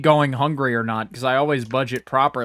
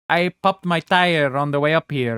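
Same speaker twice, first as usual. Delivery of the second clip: lightly put-on Italian lady accent; hint of a comic Italian accent; 2 semitones higher than usual. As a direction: do a little old-country Italian lady lilt. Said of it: "like, a little Italian lady accent".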